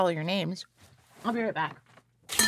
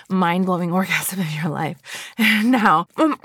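louder, urgent, driving the climax; intense erotic build; 5 semitones higher, 7 dB louder than usual. Acted. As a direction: push it harder and louder. Roleplay climax.

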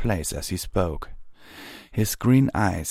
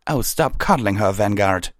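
exasperated, raised rebuke; irritated scolding; 3 semitones higher, 4 dB louder than usual. Acted. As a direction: scold the captain impatiently. Pyre Valor scolds Vanguard, stomping.

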